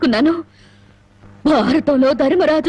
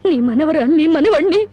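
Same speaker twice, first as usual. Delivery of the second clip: tearful, choked words; crying. Acted. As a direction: voice full of tears. Wife hands children to grandmother.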